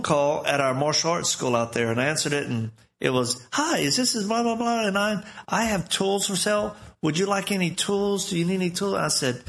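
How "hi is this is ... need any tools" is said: saleswoman pitch. Retold or imitated. Retelling a saleswoman's phone call.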